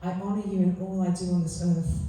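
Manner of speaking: heartfelt recitation, stressing each you and are; poem reading. Acted. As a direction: read it as a love letter to life. Continues reading her poem.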